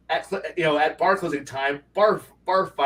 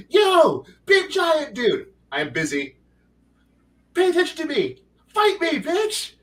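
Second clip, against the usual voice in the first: hammed-up player yelling up at the colossus, pitched way up; cocky taunt; 11 semitones higher than usual. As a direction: goad the giant like a brat picking a fight.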